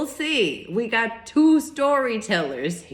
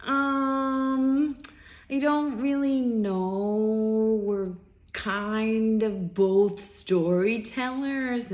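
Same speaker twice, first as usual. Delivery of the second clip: hesitant reply; 2 semitones higher, much slower than usual. Retold or imitated. Retells her reluctant answer to date.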